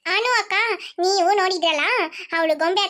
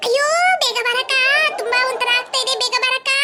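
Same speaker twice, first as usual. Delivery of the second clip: higher, distressed call for help; acted choking distress; urgent pleading; 4 semitones higher than usual. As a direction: plead for someone to hurry. Choking, calls sister to hurry.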